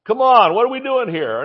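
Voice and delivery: exasperated wake-up call; mock telling-off. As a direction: call someone out to wake them up. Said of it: "Just to say".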